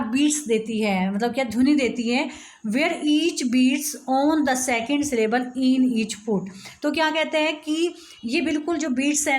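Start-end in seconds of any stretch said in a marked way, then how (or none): 2.7-6.5 slow dictation. Shown as a demonstration.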